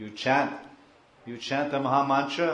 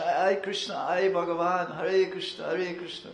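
acted crying out; 5 semitones higher than usual. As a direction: cry out to Krishna in mock lament. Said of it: "Cry for Krishna".

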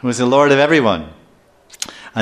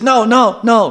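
high, loud cry of protest; mock panicked plea; 9 semitones higher, 5 dB louder, slower than usual. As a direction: plead as if about to be shot. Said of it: "because he's about to get shot".

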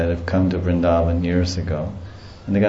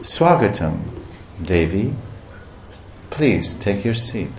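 softer, fading, loving Swagatam; tender welcome; 6 dB quieter than usual. Retold or imitated. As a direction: welcome her gently as a lover. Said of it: "you expect your lover to say".

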